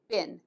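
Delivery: been said short, like "bin"; American been. Shown as a demonstration. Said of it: "American pronunciation".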